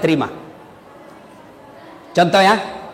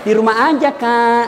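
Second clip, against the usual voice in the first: sweet lilting reply; 2 semitones higher than usual. Shown as a demonstration. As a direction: let "aja" linger, sweet and inviting. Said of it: "jangan kau juga mendayu-dayu".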